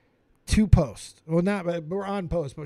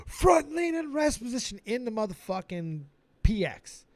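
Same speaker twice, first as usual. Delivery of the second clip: higher barked command at the troop; drill sergeant shout; 5 semitones higher than usual. Retold or imitated. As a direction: bark it like a drill sergeant on the spot.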